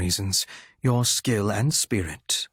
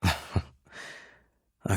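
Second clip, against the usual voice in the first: dark chuckle; 3 semitones lower, 6 dB quieter than usual. Acted. Dark chuckle before compliment.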